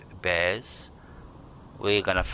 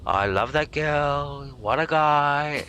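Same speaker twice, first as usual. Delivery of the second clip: higher, slow, put-on Trump voice; Donald Trump impression; 6 semitones higher, 4 dB louder, slower than usual. Streamer showing chat how Trump talks, in a slow higher put-on voice. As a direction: draw out the words like a Trump rally boast. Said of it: "the phrases he uses".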